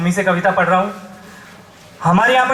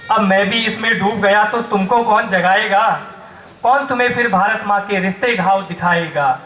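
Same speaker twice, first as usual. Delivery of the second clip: rhythmic declamation with stretched line ends; poem recitation. Acted. Poet tells the audience why he must wake them, declaiming. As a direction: recite it as a pointed appeal.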